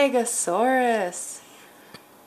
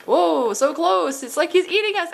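put-on play-scared for a child; frightened prey animal; 7 semitones higher than usual. Pretend dinosaur comes close.

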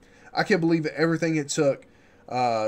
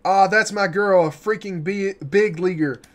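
excited; 4 semitones higher, 4 dB louder than usual. Acted. Friend celebrating the call-up.

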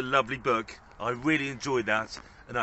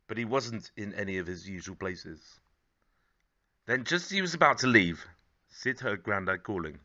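story narration. A narrator's reading. Reads a picture book aloud.

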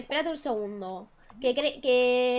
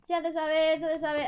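high crier proclamation; town crier; 5 semitones higher than usual. Retold or imitated. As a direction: announce like a herald. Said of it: "Antes había un niño".

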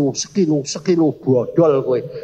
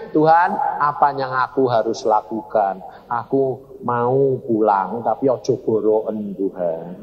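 pleading prayer; 5 semitones lower than usual. Retold or imitated. Husband modelling a prayer for mercy, pleading. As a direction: imitate a sorrowful plea to God.

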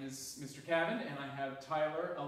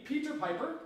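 call to repeat; 11 semitones higher, 3 dB louder than usual. Shown as a demonstration. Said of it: "So repeat after me".

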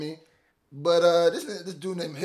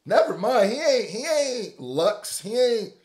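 high, laughing cry; laughing disbelief; 8 semitones higher, 4 dB louder than usual. Real, not acted. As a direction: laugh it out in shock. Laughing reaction to diss.

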